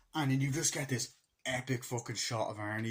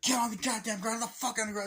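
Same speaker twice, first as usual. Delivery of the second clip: higher, louder cop yell; mock police shout; 11 semitones higher, 4 dB louder than usual. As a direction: bark orders like a raiding agent. Agents storm in.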